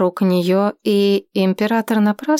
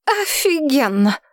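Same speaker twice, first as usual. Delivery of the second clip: sarcastic; 6 semitones higher than usual. A narrator's reading. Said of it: "сказала единственное, что ... красочнее некуда".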